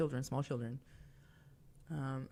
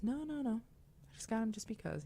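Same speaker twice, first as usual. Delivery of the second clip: protesting husband; 7 semitones higher than usual. Retold or imitated. Retells husband's protest to a stranger.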